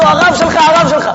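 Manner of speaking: high, insistent repeated call; acted students' excited announcement; urgent alert. Students urgently alerting their teacher.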